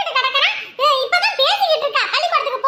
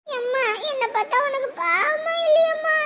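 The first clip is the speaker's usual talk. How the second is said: fake sobbing; 5 dB quieter than usual. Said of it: "இப்ப அழுதுட்டு இருக்க தானே".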